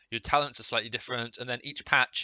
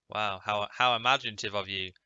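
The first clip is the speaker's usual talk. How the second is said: sarcastic; 3 semitones lower than usual. Real, not acted. Sarcastic jab at the developers.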